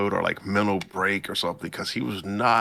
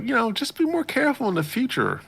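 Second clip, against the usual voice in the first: fast, high mock Suzune; faster than usual. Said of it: "And Suzune's like".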